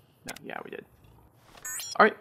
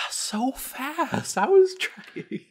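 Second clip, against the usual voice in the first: laughing; 14 semitones higher, much slower than usual. Real, not acted. Laughing at reading too fast.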